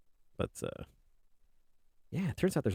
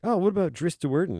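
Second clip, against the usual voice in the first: high, loud mock enthusiasm; imitated eager fans; 10 semitones higher, 7 dB louder than usual. Everyone suggesting a favourite character, mock-eager. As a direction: pipe up loudly as an overeager fan. Acts out what everyone says.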